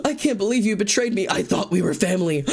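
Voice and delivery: high, wounded melodrama line; mock-heartbroken accusation; hammed-up betrayal. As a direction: play the betrayed friend, over the top.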